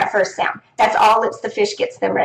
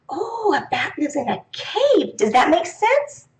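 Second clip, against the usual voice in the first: teacher echo; 5 semitones higher, 3 dB quieter, slower than usual. Shown as a demonstration. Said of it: "teacher repeats answer".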